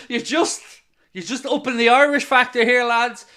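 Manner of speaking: giggling at his own Irish gag; laughing. Real, not acted. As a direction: chuckle through the joke.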